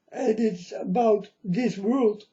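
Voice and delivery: real tears breaking through the words; crying. Real, not acted. Prophet weeping to his followers about the world.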